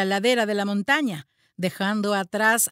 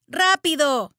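quick, raised urgent call; urgent shout; 4 semitones higher, 4 dB louder, slower than usual. Acted. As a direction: hurry him along. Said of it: "gritó Teddy".

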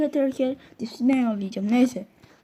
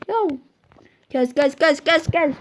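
snapping for silence; 3 semitones higher, 4 dB louder than usual. Acted. Teacher silencing class.

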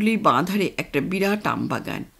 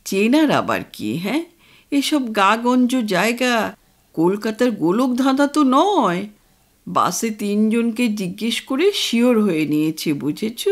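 mildly irritated father. Acted. Father brushes off mother's worry about the road, mildly irritated. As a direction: brush off her doubt, mildly annoyed. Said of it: "বাবা বিরক্ত হয়ে বলে".

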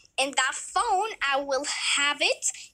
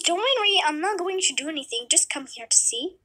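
lightly voiced doctor. Doctor calms Kayla.

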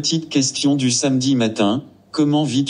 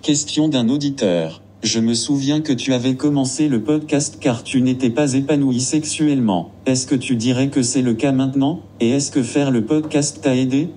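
voix de synthèse robotique et monocorde; old speech synth. Acted. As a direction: lire comme une vieille voix de synthèse. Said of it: "c'est une petite voix robotique". (voix robotique de synthèse vocale)

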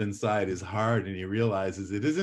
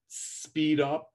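brisk, lifted "Speed up"; 6 semitones higher than usual. Shown as a demonstration. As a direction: SPEED UP said quick and higher. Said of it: "Vary your rate".

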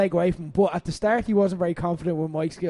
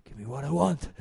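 lower, softer, calmed-down demand; calmer; 5 semitones lower, 6 dB quieter than usual. Retold or imitated. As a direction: suddenly bring it down, composed. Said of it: "kinda calms himself and he's like".

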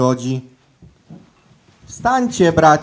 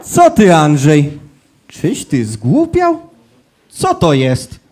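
shocked; 4 dB louder than usual. Acted. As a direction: gasp it out in disbelief. Angel shocked at his brother.

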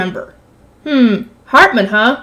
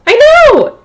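emphatic agreement; 12 semitones higher, 3 dB louder than usual. Real, not acted. Agreeing with the text.

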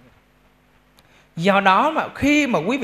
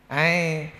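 normal talking voice

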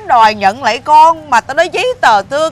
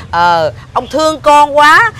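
sarcastic; 4 semitones higher, 4 dB louder, much slower than usual. Acted. Wife mocks husband's custody claim.

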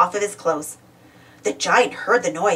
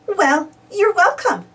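slow, higher-pitched friendly reply; smiling; 10 semitones higher, slower than usual. A narrator's reading. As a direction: say it slowly through a smile. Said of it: "with a smile".

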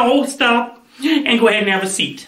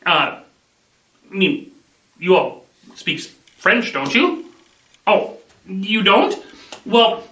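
ordinary talk

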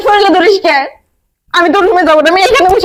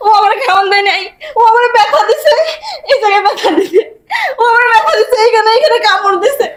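tearful accusation. Acted. Madwoman accuses him to father, crying.

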